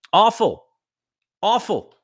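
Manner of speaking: pitched high, each word dropped in disgust; high, exasperated verdict. Real, not acted. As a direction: spit it out like you can't believe it. Ranting about a missed call.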